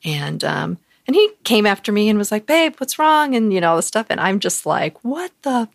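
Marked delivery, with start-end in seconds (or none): 2.5-3.3 imitating boyfriend. Boyfriend chasing her, voiced. 5.0-5.7 high, slow, stunned "what the fuck"; shocked disbelief. Retold or imitated. She reacts to her boyfriend with another woman, stunned.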